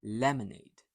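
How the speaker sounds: "Lemonade" with the middle vowel almost not there; touch the middle of "Lemonade" very briefly; short soft schwa. Shown as a demonstration. Teacher demonstrates schwa to learners, "Lemonade" with short middle. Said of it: "So it's short, soft and almost not there".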